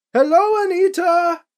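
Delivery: loud, high greeting to cut in. A narrator's reading. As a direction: break into their glare with a loud hello. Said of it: "a bit louder than necessary".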